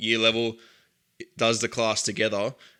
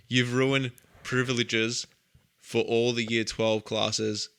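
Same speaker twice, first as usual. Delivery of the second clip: slow, heavy disappointed dad; slower than usual. Retold or imitated. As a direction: drag it out, let down. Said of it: "disappointed dad impression".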